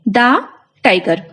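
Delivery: द said short as "duh" before tiger, falling; teacher shows द before a consonant. Shown as a demonstration. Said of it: "हम pronounce करेंगे".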